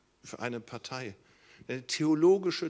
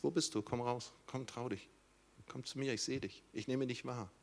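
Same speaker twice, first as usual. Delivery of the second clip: tender call; 6 dB quieter than usual. Acted. God gently calling Adam out.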